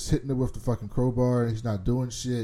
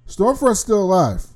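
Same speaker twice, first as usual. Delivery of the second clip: excited reveal; 8 semitones higher, 7 dB louder than usual. Real, not acted. Revealing twist.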